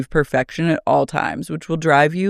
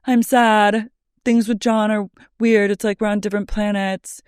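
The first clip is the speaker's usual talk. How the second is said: high, whiny inner voice; inner monologue voice; 5 semitones higher than usual. Retold or imitated. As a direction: voice her lonely thoughts. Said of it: "Her inner monologue is like".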